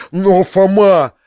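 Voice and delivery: pleading exclamation; protesting cry. A narrator's reading. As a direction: stop him with his name. Uncle protests.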